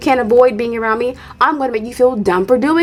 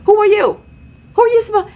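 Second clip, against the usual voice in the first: indignant; 9 semitones higher, faster than usual. Pretend. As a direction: scoff as if she's nobody to you. Dismissing Ashley, pitch jumps.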